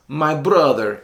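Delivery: imitating a coworker's thick Italian accent; lightly put-on Italian accent on a friendly address. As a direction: say it like an Italian guy. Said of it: "in his thick Italian accent".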